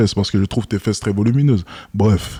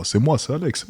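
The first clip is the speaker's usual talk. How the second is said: a bit higher, softer "c'est moi, c'est Alex"; claiming over the phone that it really is his voice, high and soft; 5 semitones higher, 6 dB quieter than usual. Pretend. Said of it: "C'est pas ma vraie voix?".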